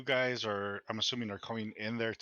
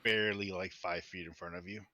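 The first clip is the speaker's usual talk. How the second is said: game master scene-setting. Acted. Game master describing a smoky room to players, measured narration.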